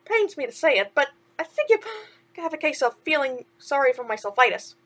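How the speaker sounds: chirpy sidekick asking what's wrong; a hint of cartoon mouse; lightly voiced mouse. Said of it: "Timothy concluded".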